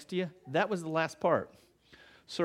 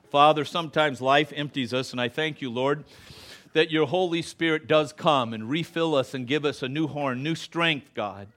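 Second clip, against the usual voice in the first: closing prayer; 3 semitones lower than usual. Acted. Pastor praying over his standing congregation, earnest and hushed.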